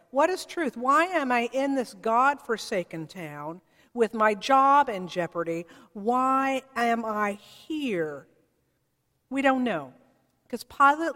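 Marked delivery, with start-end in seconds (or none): 0.1-8.3 louder, weary, slowing to a lament; lightly voiced troubled governor; personal searching. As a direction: ask it as if to himself in despair. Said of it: "asking that question in a personal way".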